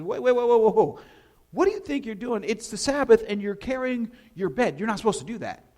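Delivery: loud, high stop-right-there call; loud indignant challenge; mock outraged yell. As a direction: shout him down like an angry gatekeeper. Jews call him out.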